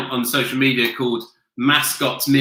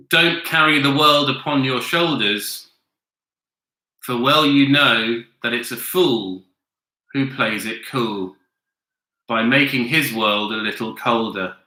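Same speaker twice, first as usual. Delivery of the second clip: monotone reading. Shown as a demonstration. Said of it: "in a monotonous voice".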